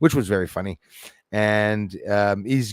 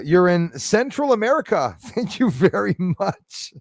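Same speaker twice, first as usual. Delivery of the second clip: high, laughing thanks; amused, breaking into laughter; 7 semitones higher, 4 dB louder than usual. Real, not acted. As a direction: laugh at your own mistake. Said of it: "I'm laughing because stupido me".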